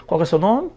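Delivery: "nome" lifted at the end as a question; rising question tune. Shown as a demonstration. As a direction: let the pitch climb on "nome". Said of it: "sobe a entonação no final".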